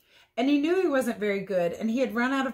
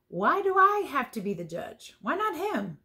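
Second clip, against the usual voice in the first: higher, whiny complaint; indignant protest; 7 semitones higher than usual. Acted. Character whining about being made judge. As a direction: protest like a put-upon kid.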